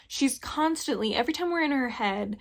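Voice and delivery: ordinary talk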